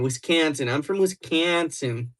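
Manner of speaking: slow, exaggerated Midwest accent, "kan" in Wisconsin; hammed-up Wisconsin vowels; put-on Wisconsin accent. Shown as a demonstration. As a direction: try out a broad Wisconsin accent. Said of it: "Oh, no, it's that one".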